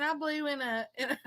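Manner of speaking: words lost in helpless laughter; laughing too hard to talk. Real, not acted. Friend laughing too hard to finish her sentence, real laughter. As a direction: try to speak through real laughter. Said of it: "she's laughing so hard I can't even understand her".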